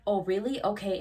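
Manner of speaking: loud, curt offended reply; pissed-off date. Retold or imitated. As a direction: clap back like a sulking date.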